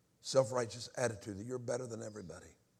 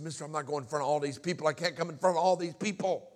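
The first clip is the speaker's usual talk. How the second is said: protesting refusal; 2 semitones higher, 6 dB louder than usual. Retold or imitated. Acts out his refusal to usher.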